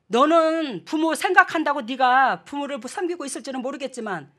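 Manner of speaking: retold older brother's reproach; imitating brother scolding. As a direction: play the brother, scolding his sister. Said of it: "그러더라고".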